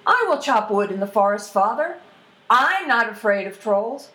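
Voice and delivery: volunteer boldly as the youngest lad; plucky youngest son. Acted. Youngest son volunteers to his father, confident and plucky.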